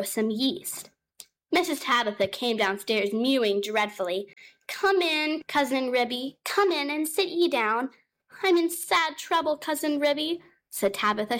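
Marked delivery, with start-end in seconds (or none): 4.7-10.4 high, fussing cat voice; a worried cat housewife, pitched up; fretful mother cat. Acted. Mother cat Tabitha greeting her cousin, high and fretful.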